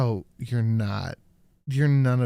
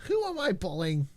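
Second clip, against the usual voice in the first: lightly mimicked politician voice; Kamala impression; 4 semitones higher than usual. Co-host repeats the clip's question, mock politician voice. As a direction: parrot the question, pitched up a little. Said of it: "she's doing the Kamala".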